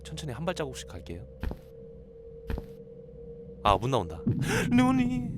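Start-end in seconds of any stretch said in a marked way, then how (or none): 4.2-5.3 startled gasp. Real, not acted. Sudden scare in horror game.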